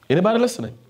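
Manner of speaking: high, insistent check on the congregation; calling out. Real, not acted. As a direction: lift the voice high to get their attention.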